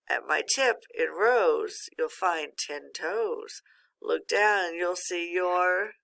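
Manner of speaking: put-on slow, rhythmic riddle read to kids; riddle recitation. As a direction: let the rhyme land line by line.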